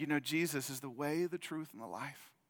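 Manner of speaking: imitated cracking voice. Retelling what their dad said to a nurse, imitating a broken voice. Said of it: "looked at him through that broken voice".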